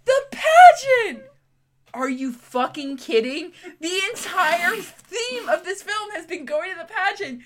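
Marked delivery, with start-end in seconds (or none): 0.1-1.2 a mock shout, much higher and louder, drawn out slowly; hammed-up cry. Sisters realising in the movie, a hammed-up slow shout. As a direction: wail it like a melodramatic revelation. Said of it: "And they go".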